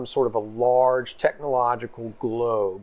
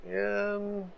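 put-on high girl voice; 10 semitones higher, 4 dB louder than usual. NPC voice reluctant, pitch climbing.

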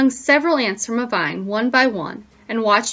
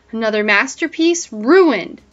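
out of breath, panting; 4 dB louder than usual. Acted. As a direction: puff the words out, winded. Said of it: "Crickwing panted".

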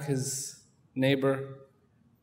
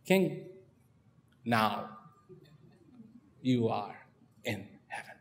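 gentle wise man; 5 semitones lower, 6 dB quieter than usual. Acted. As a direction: whisper it gently, trailing away. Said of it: "The wise man said".

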